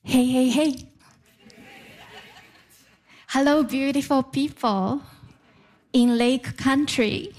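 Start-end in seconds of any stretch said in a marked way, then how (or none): none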